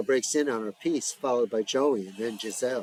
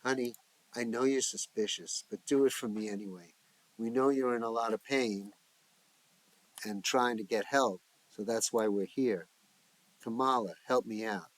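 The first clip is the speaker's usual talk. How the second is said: tender. Acted. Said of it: "with tenderness".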